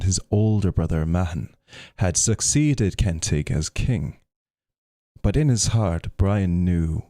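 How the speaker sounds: measured storyteller, projected a little; story narration. A narrator's reading. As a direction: read the legend aloud with steady weight. Reads Brian Boru story aloud.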